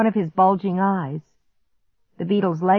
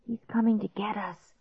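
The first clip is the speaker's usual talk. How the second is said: soft, hushed dread; frightened whisper; 3 semitones higher, 8 dB quieter than usual. A narrator's reading. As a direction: whisper it, frozen with fear. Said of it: "Clark whispered".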